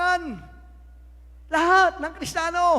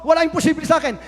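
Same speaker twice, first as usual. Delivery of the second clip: louder, a ringing cry of God's promise; bold shout; 9 dB louder, faster than usual. Acted. Preacher voicing God to the congregation, loud proclaiming shout. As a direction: proclaim it like God answering with full force.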